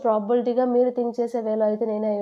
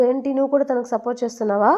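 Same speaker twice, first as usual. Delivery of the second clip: mock-stern, raised-voice question; retold angry challenge; 2 semitones higher, 5 dB louder than usual. Grandfather challenges Jin for supporting her, mildly angry. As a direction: lightly act an indignant grandfather, a bit louder.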